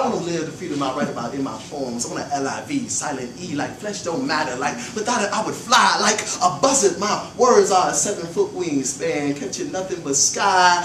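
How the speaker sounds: flowing spoken-word delivery; poem recital. Acted. Poet reciting about freedom, flowing spoken word. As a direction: let it soar like the verse.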